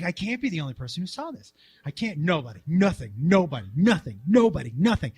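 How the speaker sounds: soft, fast, muttered disbelief; hushed frantic thought. Retold or imitated. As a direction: rattle it off under your breath. Retold frantic inner monologue, hushed.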